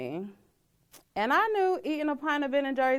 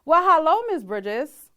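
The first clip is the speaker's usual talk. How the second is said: high, loud hello dropping on the name; lightly put-on professional greeting; lightly voiced doctor; 6 semitones higher, 7 dB louder than usual. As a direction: open the appointment with a mildly singsong hello. Voices obstetrician greeting her.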